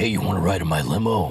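put-on creepy, sleazy dirty-old-man voice and pitch. Retelling a stranger's offer of a limo ride, redoing how he said it: imitating a dirty old man. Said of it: "who's this dirty old man?".

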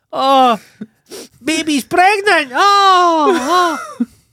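shrill, very high, booming, overcome emotional outburst. Speaker retells how the dog's owners reacted to the news; imitating someone getting emotional. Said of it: "they got emotional".

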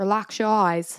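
put-on British accent. Trying to copy a man's line from a video, in a British accent. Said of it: "I guess that's British".

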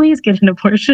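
put-on pleading, begging voice. Speaker retells what a man said to them, imitating someone begging. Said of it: "he's like begging me".

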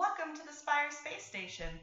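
computer announcer voice. Game master voices the station intercom for the players, AI intercom voice. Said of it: "you hear the same AI voice".

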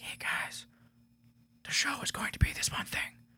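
hushed whisper for dramatic effect. Speaking on the mic, whispering for dramatic effect. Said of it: "I'm whispering for dramatic effect".

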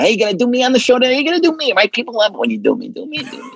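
animated, high, swooping late-night talk-show host voice. Retelling what Jay Leno would always ask: imitating Jay Leno. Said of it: "Leno would always go".

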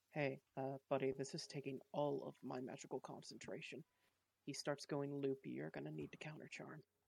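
soft, hushed half-whisper, very close. Voicing a hidden character speaking into someone's ear: half-whispering in character. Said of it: "you just hear a whisper in your ear".

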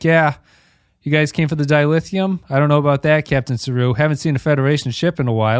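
totally deadpan, lifeless, flat reading. Retelling how an actress delivered her lines: imitating a deadpan delivery. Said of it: "she's just totally deadpan. She's like".

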